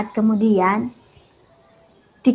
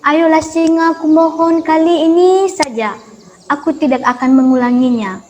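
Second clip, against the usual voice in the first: higher, louder pleading mouse; begging mouse; 4 semitones higher, 4 dB louder than usual. Acted. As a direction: coax the lion earnestly. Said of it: "tikus pun terus memohon".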